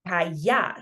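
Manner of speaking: "Callar" with a y sound and a barely-there final R; gentle R. Shown as a demonstration. Teacher models the word, really gentle R in "Callar". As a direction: let the R fall off the end of "Callar". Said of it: "notice my R's are really gentle".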